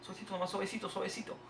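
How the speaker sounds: soft, slightly high, careful voice; gentle coaxing. Real, not acted. Player nursing a delicate shot, soft coaxing. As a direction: coax it along very softly.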